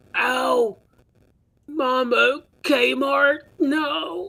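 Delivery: very high, gurgling cry. The game master voices a struck enemy dying in the game, as Clark's gurgling death cry. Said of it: "as he gurgles out".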